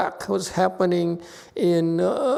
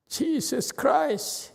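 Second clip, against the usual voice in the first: drawn-out exasperation; 8 semitones higher, 3 dB quieter, much slower than usual. Real, not acted. Exasperated at student's excuse.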